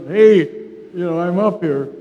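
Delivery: imitating an electrician calling out to the nurse; mock holler. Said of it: "should holler".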